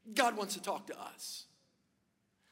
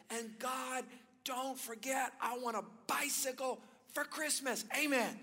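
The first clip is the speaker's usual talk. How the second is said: mock yell; 4 semitones higher than usual. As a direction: imitate a child calling up to God in prayer. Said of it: "and he yells".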